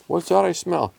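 lightly voiced nosy cat; suspicious cat. A narrator's reading. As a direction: sniff out a secret. Randy sniffs out the bird.

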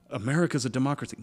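quick, smug imitation of a know-it-all; mocking dumb voice. Mimicking someone who calls America a democracy. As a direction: parrot the claim like a fool. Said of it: "if you're like".

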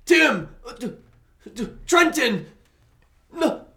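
high panicked shout for help; calling out. Pretend. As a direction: yell names across the canyon. Calling for help when captured.

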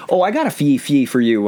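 把FYI念成“fee”; funny FYI as fee. Shown as a demonstration. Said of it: "it's just a funny way of saying F Y I".

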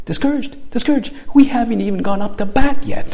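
can't believe she'd think that; incredulous kid. Retold or imitated. Kid answering the lady, high and incredulous.

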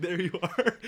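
laughing through the line. Retold or imitated. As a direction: break up while saying it. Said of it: "I was like".

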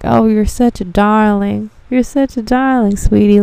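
mildly hammed-up fond praise; grateful customer. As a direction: gush sweetly at the helper. Acts out a grateful customer praising her.

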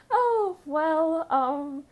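high, loud flustered hesitation; replaying a flustered, nervous stall; nervous stammer. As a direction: stall like a panicked kid caught out. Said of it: "you know, panicking".

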